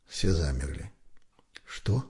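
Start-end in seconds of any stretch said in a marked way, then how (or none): 1.7-2.1 mouthed softly. A narrator's reading. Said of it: "одними губами переспросил офицер".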